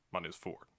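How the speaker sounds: low, rough drawl. Shown as a demonstration. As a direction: growl the name out roughly. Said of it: "Make my voice nice and rough".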